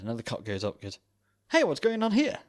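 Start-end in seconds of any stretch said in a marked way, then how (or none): 1.5-2.4 high, loud American cop voice; hammed-up American accent. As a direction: bark it like a Yank cop. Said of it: "But in an American accent".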